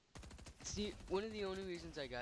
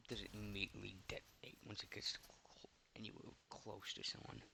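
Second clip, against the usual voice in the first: whispering; 4 semitones lower, 6 dB quieter than usual. Real, not acted. Quiet aside while aiming.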